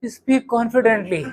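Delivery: slow, hesitant, unsure of yourself; mock nervous delivery; shaky unconfident take. Shown as a demonstration. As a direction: drag it out like you doubt every word. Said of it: "खुद का पता हिला हुआ है".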